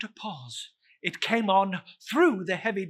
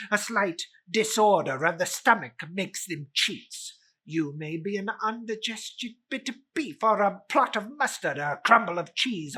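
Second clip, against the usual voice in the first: a hint of a blustering old miser; lightly voiced Scrooge. Scrooge dismisses the ghost as indigestion, lightly voiced bluster.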